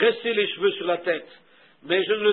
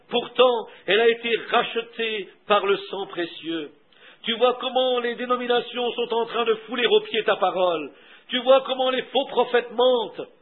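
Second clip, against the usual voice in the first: fervent prayer. Acted. Prophet praying to the lion of Juda, fervent. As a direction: call out to God, then plead in measured phrases. Leads a prayer after "Prions.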